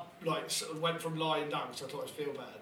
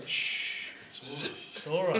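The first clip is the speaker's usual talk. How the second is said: mock hushing; slower than usual. Uncle soothing a boy in bed, hushed mock comfort. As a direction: hush him gently, pretend comfort. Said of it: "Just going".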